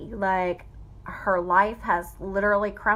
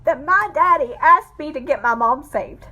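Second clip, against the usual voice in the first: fighting real tears while speaking; holding back tears; 6 semitones higher than usual. Real, not acted. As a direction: voice breaking high and unsteady, close to crying. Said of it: "I'm gonna try not to cry".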